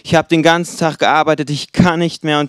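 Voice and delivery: mild mock whining. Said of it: "dann nörgelt diese Person rum und sagt".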